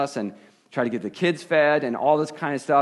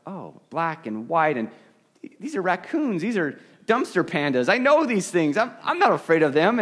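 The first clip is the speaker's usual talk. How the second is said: higher, lighter voice of sudden relief; relieved realization; 5 semitones higher, 3 dB louder than usual. Retold or imitated. Peering out of the tent at the raccoons: relieved. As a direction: let the fear drain into amused relief. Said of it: "and I was".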